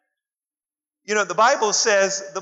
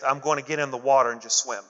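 mock blind faith; 7 semitones lower, faster than usual. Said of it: "blind faith".

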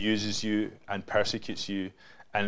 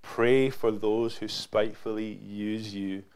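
scripture reading; slower than usual. Acted. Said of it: "it says".

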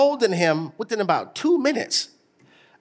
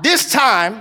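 loud call; 4 dB louder than usual. Shown as a demonstration. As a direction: lead the congregation loudly. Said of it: "I want us to say it loud".

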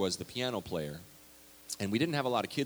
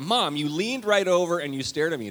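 put-on teen protest; 7 semitones higher, 6 dB louder than usual. Teen confronting mom.

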